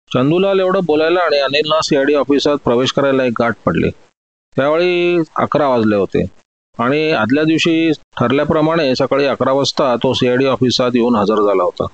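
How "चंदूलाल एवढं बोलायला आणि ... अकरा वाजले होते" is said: ordinary delivery, nothing marked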